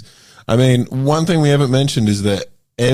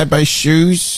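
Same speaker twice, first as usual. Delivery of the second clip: higher, slow mock-vapid voice; imitated poolside woman; 5 semitones higher, much slower than usual. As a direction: draw it out, gently mocking her.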